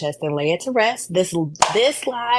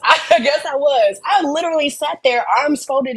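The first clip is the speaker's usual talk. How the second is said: laughing; 9 semitones higher, 3 dB louder than usual. Real, not acted. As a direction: laugh out the admission.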